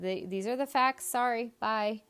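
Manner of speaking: imitating an indifferent HR caller, a touch brisk; mock dismissive. HR caller to rejected candidate, mock dismissive. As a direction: toss off a token apology. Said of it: "She had no fucks to give".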